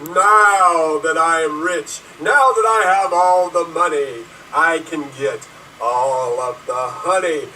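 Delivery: recreate the gloating rich villain rant; dramatic monologue. Acted. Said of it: "recreate Marty's recreation".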